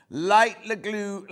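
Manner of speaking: Light Lagoon dragged out slowly, syllable by syllable; slow right down as if tripping over the name; struggling to get the fabric name out, so she says it slowly; slow careful try. Shown as a demonstration. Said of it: "God, I can't even say it".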